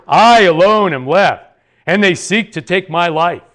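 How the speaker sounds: mildly aggrieved self-justification, swelling on "I alone"; self-pitying, somewhat bitter. Acted. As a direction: plead your case with wounded self-pity. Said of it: "his answer shows that he's feeling sorry for himself".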